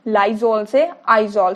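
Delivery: Lysol से Izol said very slowly; slow and deliberate. Shown as a demonstration. Teacher drills the mnemonic for students, slowly. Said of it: "spellings थोड़े Izol के ध्यान से करना है".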